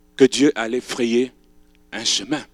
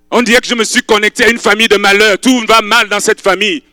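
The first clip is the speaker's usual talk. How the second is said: raised, earnest plea; pleading young widow; 9 semitones higher, 9 dB louder than usual. Acted. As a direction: beg to stay with her. Ruth speaks of her misery.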